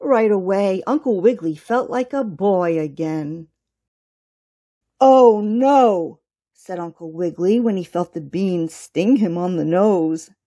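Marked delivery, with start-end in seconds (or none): 5.0-6.2 louder, startled bunny; mildly hammed-up dismay; dismayed yelp. A narrator's reading. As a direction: cry out at a sudden sting. Bunny stung on nose by bean.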